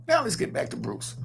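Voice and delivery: shouted toss back to the topic; a shouted host's transition; called-out segue. Real, not acted. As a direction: call out the segue to move on. Steering the show back on topic.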